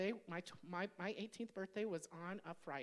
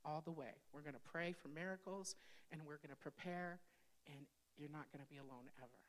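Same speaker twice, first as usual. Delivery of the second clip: tender reassurance; 3 semitones lower, 5 dB quieter than usual. Retold or imitated. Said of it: "And I'm like".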